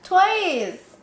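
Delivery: high, loud "Twice!"; emphatic protest. Real, not acted. Wife protesting her husband's doubt, high and loud. Insisting to husband about shea butter.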